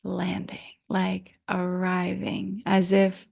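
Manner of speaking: unhurried guiding voice with long pauses; guided meditation. Real, not acted. Yoga teacher settling listeners in for Yoga Nidra, guided meditation. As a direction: ease listeners into rest, leaving space between phrases. Leads into guided rest practice.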